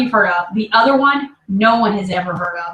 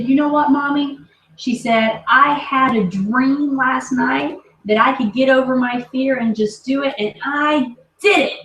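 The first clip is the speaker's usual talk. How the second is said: imitating excited daughter; 4 semitones higher than usual. Daughter's excited words retold.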